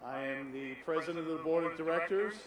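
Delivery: speaking winded after a climb; breathless, catching air between phrases; out of breath. Real, not acted. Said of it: "I'm out of breath".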